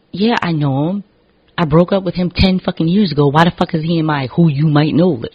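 loud, high exasperated rant. Real, not acted. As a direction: vent about the ex suggestion. Ranting about ex on Facebook.

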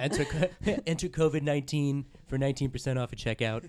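laughing through a mock ad read; upbeat sponsor-spot delivery, half laughing; podcast ad read. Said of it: "Sounds like he's doing an ad for Squarespace".

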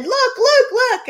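high, loud teasing look look; kids taunting. Retold or imitated. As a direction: push it at her like a bratty kid. Kids shoving magazine.

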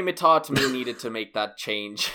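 put-on slow pirate-Caribbean accent. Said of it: "Now I just sound like Barbosa".

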